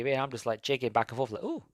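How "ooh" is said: short, high-pitched "ooh"; a little ooh of delight; intrigued ooh. Retold or imitated. Man jigging to samba music, pleasantly taken "ooh".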